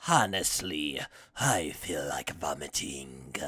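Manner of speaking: low, soft, whispered disgust; Frieza's disgust. Retold or imitated. Frieza mocking the pep talk, low whispered disgust. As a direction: breathe it out, bored and disgusted. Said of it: "Frieza goes like".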